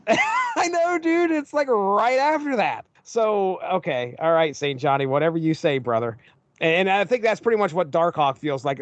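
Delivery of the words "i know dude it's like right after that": laughing, high and amused. Real, not acted. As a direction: laugh through the words.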